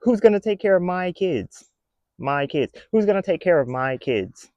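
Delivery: high, pleading mock wail; hammed-up worried mother; imitating a woman crying online about her kids; mock crying lady. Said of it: "lady crying about".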